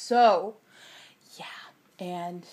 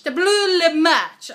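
silly drawn-out; 7 semitones higher, 7 dB louder, much slower than usual. Shown as a demonstration.

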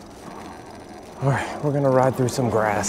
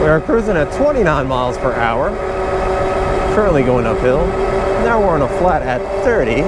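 crisp news anchor read; newscaster voice. Pretend. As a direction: announce it like a newscaster. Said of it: "like my newscaster voice?".

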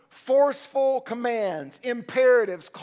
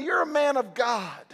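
called out with force, stress on You're; Paul to Timothy, a rousing shout; fervent charge. Acted. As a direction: declare it like a father's charge. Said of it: "and say".

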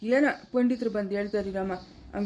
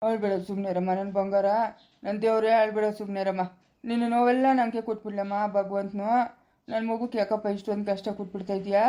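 soothing; 3 semitones lower than usual. Acted. Mother soothing crying child.

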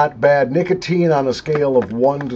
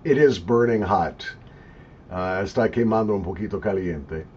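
speaking while smoking pipe; talking around a pipe; 5 semitones lower than usual. Real, not acted. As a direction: pipe stem between lips. Seen 0: Speaker talks with pipe stem between lips, briefly removed near 2.5s.

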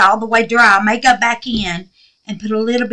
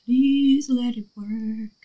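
whisper; 6 dB quieter, much slower than usual. Real, not acted. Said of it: "Y'all, I'm quiet, ain't I?".

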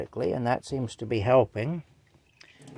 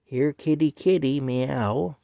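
higher, louder sing-song kitty call; bowl's cute voice; 4 semitones higher, 5 dB louder, slower than usual. Pretend. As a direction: read the bowl's words like a cute little call. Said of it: "It says".

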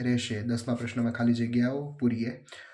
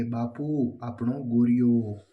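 drawn-out calling, louder toward the end; mild imitated cry; 3 dB louder, much slower than usual. Sapna calls out to her father about the bullock, mild drawn-out cry. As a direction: stretch it out like a child's mock shout. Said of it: "સપનાએ ચીસ પાડીને કહ્યું".

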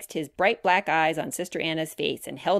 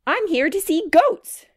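put-on high, loud, slow and emphatic child; excited cry; 11 semitones higher, 7 dB louder, slower than usual. A narrator's reading. Grace tells Sam why she came, crying out excitedly. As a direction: proclaim it with childlike glee. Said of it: "cried Grace".

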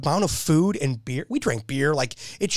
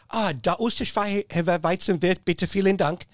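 bad German; 3 semitones higher than usual. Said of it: "I'm gonna butcher this".

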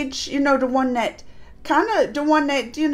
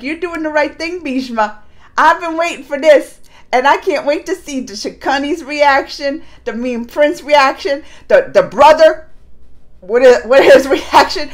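delighted Krishna; 7 dB louder than usual. Retold or imitated. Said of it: "He's like".

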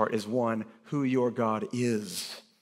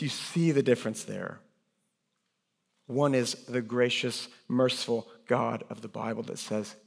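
ordinary delivery

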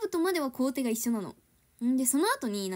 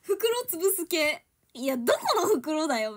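exasperated mock retort; 6 semitones higher, 4 dB louder, slower than usual. Mocking confusing origami instructions.

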